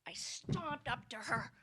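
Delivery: normal talking voice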